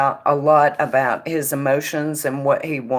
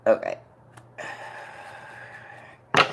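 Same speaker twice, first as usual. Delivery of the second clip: cigarette in mouth; 9 semitones lower, 7 dB quieter, much faster than usual. Real, not acted. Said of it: "Let me light my cigarette".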